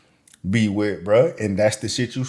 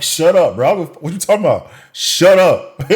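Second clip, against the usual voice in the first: higher and louder, shouting her down; mock shout; 7 semitones higher, 6 dB louder than usual. Mocking the guest, shouting her down. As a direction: yell "shut up" at her mockingly. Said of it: "It's like".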